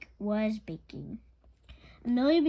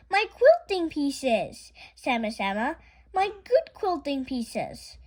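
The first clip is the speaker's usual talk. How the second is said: dismayed lament; 4 semitones higher, 6 dB louder, slower than usual. Acted. Miss Emma sees ruined scraps.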